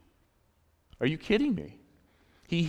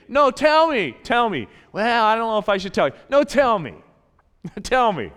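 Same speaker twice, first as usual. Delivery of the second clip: a bit higher and louder, eager; coaxing God; 3 semitones higher, 5 dB louder than usual. Acted. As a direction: urge them gently to open up. God voiced coaxing the listener.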